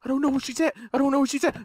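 rapid-fire panicked repetition; scared. Real, not acted. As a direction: repeat it under your breath in fright. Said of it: "I'm fucking scared".

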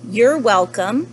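loud, slow storybook reply; gracious panda. Acted. Mister Panda answers the lemur's thanks, loud and slow. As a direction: stretch the reply out loudly.

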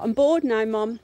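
lightly voiced bored pup complaining; bored pet to Mum. Speaking for the pup to Mum, mock bored. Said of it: "he's like".

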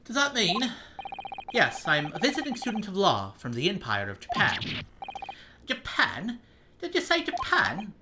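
startled Scottish jailer, ham it up; amateur Scottish brogue; Scottish accent. Acted. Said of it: "I'm gonna do some kind of Scottish accent".

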